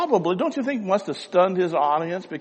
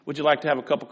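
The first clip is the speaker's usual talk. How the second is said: welcoming host; 3 semitones higher, 5 dB louder than usual. Retold or imitated. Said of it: "and you said".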